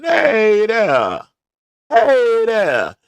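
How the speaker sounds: sing-song Southern Alabama hello. Shown as a demonstration. Vlogger greeting viewers in a Southern Alabama accent. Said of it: "In my Southern Alabama voice".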